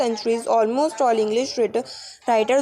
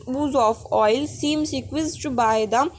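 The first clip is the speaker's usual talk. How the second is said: slow drawn vowels; slower than usual. Shown as a demonstration. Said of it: "Along the slow alternative vowels".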